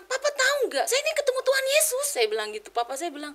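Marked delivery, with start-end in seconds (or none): 0.0-2.0 high, loud, eager retelling; excited announcement. Retold or imitated. Child tells papa of meeting Tuhan Yesus, excited outburst. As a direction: burst out with the big news to your father.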